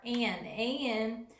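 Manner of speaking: slowly, spelling A N; slow spelled emphasis. Shown as a demonstration. Teacher spells the word an slowly for the class. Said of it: "This is our important part".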